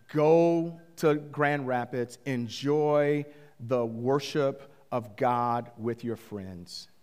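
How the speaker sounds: slow, sincere permission; genuine blessing. Retold or imitated. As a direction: release him calmly, word by word. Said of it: "And I was genuine".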